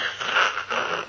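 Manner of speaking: loud choked sob noises, voiceless and jerky; loud mock stifled crying; imitated fought-back crying. Shown as a demonstration. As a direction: mimic straining against your own sobs. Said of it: "fighting the crying at the same time".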